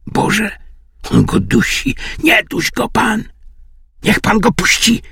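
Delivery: a high anxious plea for her dog; pleading lady. A narrator's reading. Lady begs someone not to strangle her dog, high plea.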